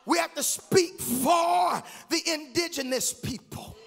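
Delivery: sung, measured preaching lines; preaching cadence. Acted. Pastor listing duties to the church in a sung cadence. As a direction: chant each charge over the organ.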